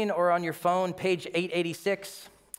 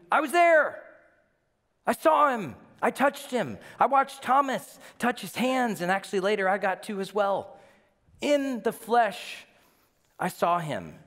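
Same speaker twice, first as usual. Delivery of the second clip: much higher and louder testimony; passionate witness; 6 semitones higher, 3 dB louder than usual. Retold or imitated. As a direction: insist you saw it yourself. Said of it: "John wants to tell you".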